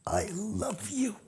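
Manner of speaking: a slow breathy whisper of I love you; soft whispered confession. Shown as a demonstration. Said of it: "He would say th-, the following".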